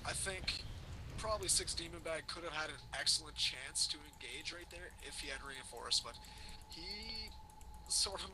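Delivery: glitchy cyborg-sounding mic voice; robot voice through a bad mic. Real, not acted. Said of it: "you have a wicked sick cyborg, uh, voice right now".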